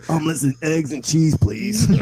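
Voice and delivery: singsong breakfast order, rising at the end; mock Nicki. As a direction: playfully chant the order in imitation. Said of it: "it would be like".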